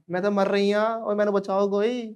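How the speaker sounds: high, hammed-up plea for rescue; mock-wail like a melodramatic dying woman. Dying woman calling for someone to save her, high mock wail. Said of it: "और जब मर रही तो".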